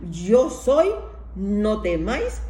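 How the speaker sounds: loud, proclaiming shout; loud call. Retold or imitated. Preacher repeats Jesus shouting reassurance to the disciples. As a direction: boom it out like a divine command. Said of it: "el Señor les grita".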